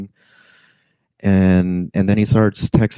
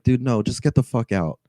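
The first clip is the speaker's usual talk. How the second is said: higher, softer exasperated refusal; retold exasperation; 5 semitones higher, 4 dB quieter than usual. Fed-up driver ordering passenger out, retold exasperation. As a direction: re-enact losing patience, pitched up. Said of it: "I lost it".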